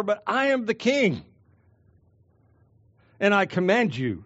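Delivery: a hint of a regal Jesus issuing orders; Jesus as king. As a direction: speak as the king laying down his command. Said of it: "Jesus is saying".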